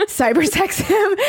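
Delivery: laughing. Real, not acted. Laughing while retelling.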